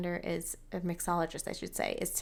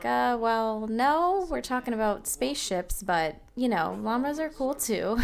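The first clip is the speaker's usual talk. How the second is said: voicing other Sims; 4 semitones higher, 5 dB louder than usual.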